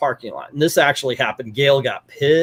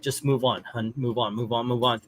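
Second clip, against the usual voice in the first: soothing urge; 4 semitones lower, 8 dB quieter than usual. Retold or imitated. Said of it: "Gail's like".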